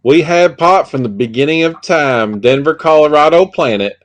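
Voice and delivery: slow, lightly drawled redneck voice; a hint of a hick twang; hillbilly accent. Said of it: "I'm just reading in her voice".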